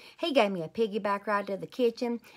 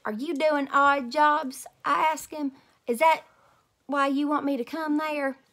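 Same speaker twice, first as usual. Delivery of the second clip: put-on eager kid questions; 7 semitones higher, 7 dB louder than usual. A narrator's reading. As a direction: ask grandpa eagerly.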